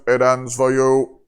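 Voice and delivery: slow robotic voice. Acted. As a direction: speak it like a cold machine. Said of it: "in my robotic voice".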